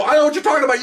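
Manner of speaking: high-pitched mock protest; retold denial. Storyteller denies the prank to the officer, high mock protest.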